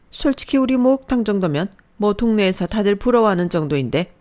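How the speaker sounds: scolding mother-in-law. Acted. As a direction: lay down the law like a domineering mother-in-law. Mother-in-law laments to son.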